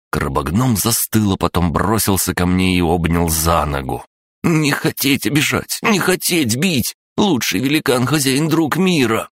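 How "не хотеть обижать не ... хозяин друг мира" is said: very high, pleading crab voice; snappy clicking crab. Acted. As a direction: beg forgiveness squeakily. Crab gnome voiced, apologising.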